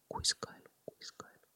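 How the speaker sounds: whispered echo dying away into silence; fading whisper. Shown as a demonstration. (hiipuva kuiskauskaiku)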